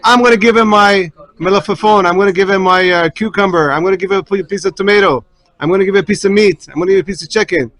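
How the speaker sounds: put-on kids eagerly outbidding each other; joyful kids. Children eagerly offer their food to the guest, joyful. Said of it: "jumps up with joy and says".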